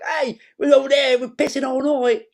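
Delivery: high, loud hammed-up English accent; Bob Hoskins. Co-host imitating the actor in interviews, loud mock English accent. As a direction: bawl it in a mock British accent. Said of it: "when he hears like".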